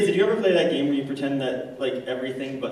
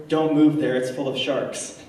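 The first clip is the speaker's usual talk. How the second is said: warning shout; 4 dB louder than usual. Retold or imitated. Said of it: "wished to shout out".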